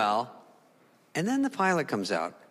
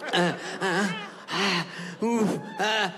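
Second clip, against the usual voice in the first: nervous stammer; 3 semitones higher, much slower than usual. Retold or imitated. Nervous stammering before pilot.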